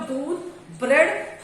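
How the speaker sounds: दूध, short stop, then ब्रेड; ब्रेड set apart with a rising tune; comma pause. Shown as a demonstration. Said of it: "हम रुक रहे हैं बोलते समय".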